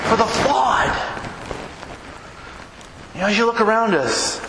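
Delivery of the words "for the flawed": preaching shout. Real, not acted. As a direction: belt it out to the congregation. Preacher's climactic point.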